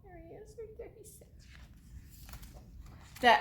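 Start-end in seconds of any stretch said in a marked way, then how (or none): 0.0-1.5 very soft, high aside; hushed aside. Real, not acted. Storyteller showing children the owl, very hushed. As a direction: drop to almost nothing, pointing him out.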